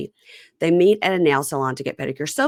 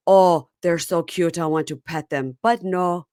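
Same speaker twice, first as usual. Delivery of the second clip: silly clown; slower than usual. Retold or imitated. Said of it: "He, he's excited. He goes".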